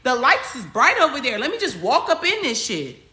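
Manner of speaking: high, bright-eyed voice of someone strolling into trouble; mock reckless person. Mocking a follower who walks into a fire, high and eager. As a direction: play the fool eagerly heading for the fire. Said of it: "You are literally saying".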